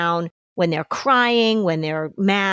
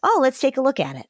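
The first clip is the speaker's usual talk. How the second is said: easy, higher-pitched, quick reassurance; non-anxious response; 6 semitones higher, faster than usual. Acted. Parent answers a child's sore tummy, unruffled. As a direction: take it in stride, brisk and unworried.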